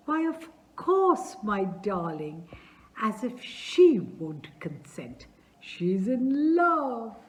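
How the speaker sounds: high, slow, delighted exclamation; father assuring the suitor, gleeful and loud; gleeful reassurance. Acted. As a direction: crow it with delight. Chubukov assures Lomov gleefully.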